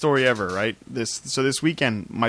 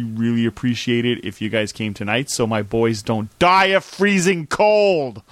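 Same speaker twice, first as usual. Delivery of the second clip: mock desperate plea; 4 dB louder, slower than usual. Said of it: "I'm like".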